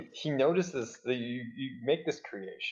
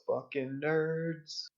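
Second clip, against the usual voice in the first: drawn-out, higher-pitched mock yell at normal volume; 5 semitones higher, much slower than usual. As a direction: stretch it out like a jeer called after someone leaving. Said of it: "just turns around and just yells".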